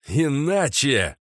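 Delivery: high, loud, slow warning; loud ultimatum. Acted. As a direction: hurl the threat. Mage's ultimatum repeated.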